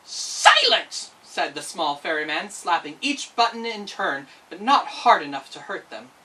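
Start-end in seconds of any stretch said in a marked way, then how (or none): 0.1-1.1 high, loud sharp order; stern command. Acted. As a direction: silence the buttons. Ferryman scolds buttons.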